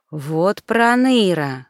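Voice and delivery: snorting. Acted. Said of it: "фыркнула Таня".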